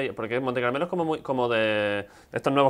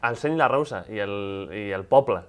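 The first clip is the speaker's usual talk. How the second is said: mock Catalan accent; 5 semitones lower, slower than usual. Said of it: "tengo buen acento catalán".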